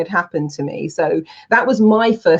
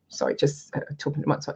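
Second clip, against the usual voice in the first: whispered aside; 3 semitones lower, 10 dB quieter than usual. Real, not acted. Aside while doing something off-mic.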